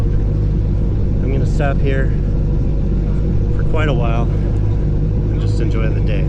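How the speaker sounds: out of breath from paddling; short of breath, breathy phrases; shallow breathing. Real, not acted. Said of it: "Sorry I'm out of breath".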